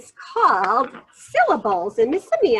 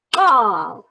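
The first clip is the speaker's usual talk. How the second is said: clapped word; 3 semitones lower than usual. Shown as a demonstration. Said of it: "clap one syllable".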